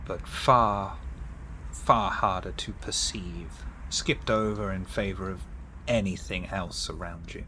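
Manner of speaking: measured scene-setting with deliberate pauses; game master narration. A narrator's reading. Game master describing a blood power to a player, measured narration. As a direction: narrate it in short, weighted phrases.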